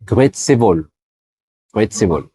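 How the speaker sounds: "Grüezi wohl" dit "grüétsé vol"; salut formel suisse. Shown as a demonstration. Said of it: "ils vont dire". ("Grüezi wohl" à la suisse allemande)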